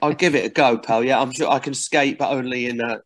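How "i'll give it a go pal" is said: put-on light Teesside Middlesbrough accent; a breezy Middlesbrough accent. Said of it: "only in a Middlesbrough accent".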